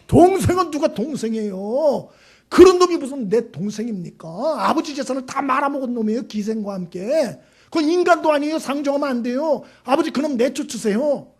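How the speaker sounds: a son resenting his brother; indignant son. Acted. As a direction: protest to the father, aggrieved. Elder son's angry protest acted.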